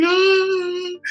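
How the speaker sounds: a high imitated wail of a crying child; child's cry. Child crying at kindergarten drop-off, high mock wail. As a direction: wail like a four-year-old dropped at school. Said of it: "you're probably just crying".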